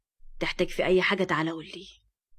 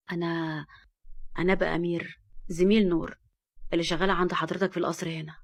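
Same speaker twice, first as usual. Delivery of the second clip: a touch of hesitant nerves; nervous; 3 semitones lower than usual. Acted. Amir nervously introduces himself to Fahd, mild nerves. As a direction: stumble a little, unsure of yourself. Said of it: "وقال بتوتر".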